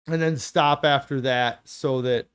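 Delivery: talking through a burp; speech broken by a burp. Real, not acted. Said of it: "I'm burping a lot".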